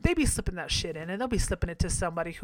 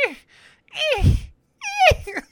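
yapping chihuahua; 8 dB louder, faster than usual. Retold or imitated. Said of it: "like a little yapping fucking chihuahua".

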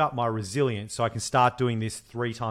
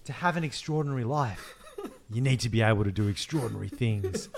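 mocking a guru. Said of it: "posting things like".

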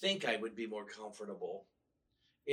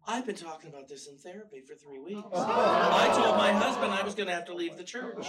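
laughing while quoting; 6 semitones higher, 11 dB louder than usual. Retold or imitated. Retelling her words while laughing.

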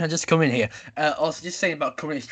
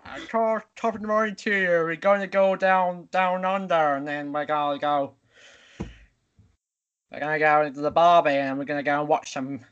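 badly faked Irish-Australian accent; Irish-Australian accent mash-up. Contestant attempting the host's challenge, clumsy Irish-Australian accent. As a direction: wobble between mock Irish and mock Australian. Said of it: "Irish accent crossed with an Australian accent".

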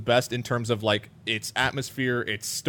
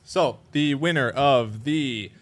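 award announcement; 3 semitones higher, slower than usual. Real, not acted.

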